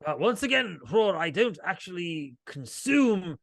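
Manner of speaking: high, haughty owl spirit; high lofty spirit voice. Acted. Owl spirit speaks in character.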